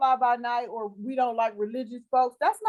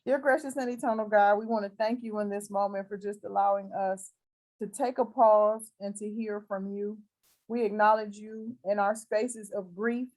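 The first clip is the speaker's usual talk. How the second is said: closing prayer; 3 semitones lower than usual. Acted. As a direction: pray over her gently, like in church.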